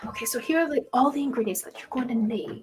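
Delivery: measured shopkeeper, slowing on key words; a hint of a fussy potion seller; lightly voiced careful herbalist.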